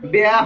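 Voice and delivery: বেয়া as a two-part "be-ya"; goat-like bleat. Shown as a demonstration. Teacher mocks pupils' mistake, বেয়া bleated like a goat. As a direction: overdo বেয়া like a goat's bleat. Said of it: "একবারে বকরির মতো যে বেয়া".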